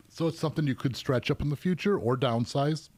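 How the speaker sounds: talking through hiccups; words broken by hiccups. Real, not acted. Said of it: "Got the hiccups early this episode".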